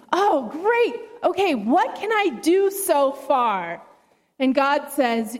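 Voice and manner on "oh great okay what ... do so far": mildly excited, pitch lifting at the start; excited snake. Acted. Snake hearing good news from God, mildly excited. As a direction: react with eager delight as the snake.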